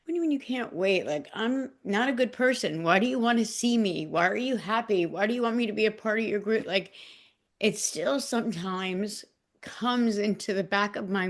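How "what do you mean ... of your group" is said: incredulous self-talk. Retold or imitated. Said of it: "I'm like".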